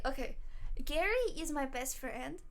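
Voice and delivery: ordinary talk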